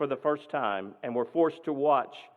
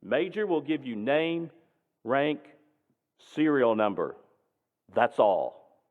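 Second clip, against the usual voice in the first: stern; slower than usual. Retold or imitated. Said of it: "said very sternly".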